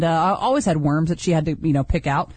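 usual speaking voice

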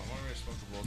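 breathy whispered aside. Real, not acted. Quiet aside.

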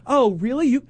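mock incredulous neighbour; condescending act, starting high and disbelieving. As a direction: imitate a patronizing know-it-all. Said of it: "completely being condescending".

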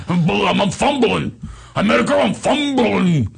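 high, loud mock-panicked impression; hammed-up flustered wail; Steiny. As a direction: build to a pleading squeal. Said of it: "that's how he would talk".

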